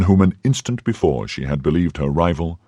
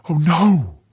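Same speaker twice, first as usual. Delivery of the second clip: much higher, earnest cry of denial; emphatic denial; 12 semitones higher than usual. A narrator's reading. Milady convincing the novice she was never his mistress, an emphatic cry. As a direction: deny it with total conviction. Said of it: "with an accent that admitted no doubt".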